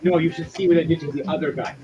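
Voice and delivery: loud threatening growl of a tough fighter; menacing threat. Acted. GM voices angry Chrome threatening.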